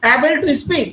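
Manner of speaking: very slow, word by word; slow, deliberate teacher read; slow model sentence. Shown as a demonstration. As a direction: dictate it slowly to students. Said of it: "आप क्या कहेंगे?".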